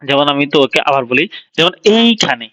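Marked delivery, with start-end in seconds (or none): 2.0-2.5 এইখানে with এই held as one piece, then খানে; syllable demonstration. Shown as a demonstration. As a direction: set এই apart from খানে. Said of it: "আমি আবার রিপিট করি".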